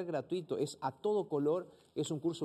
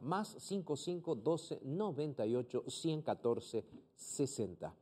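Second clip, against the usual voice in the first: digits given slowly, trailing off softer; slow dictation; 4 dB quieter, slower than usual. Shown as a demonstration. Slow dictation. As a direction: pastor gives the WhatsApp number one more time. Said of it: "una vez más el WhatsApp".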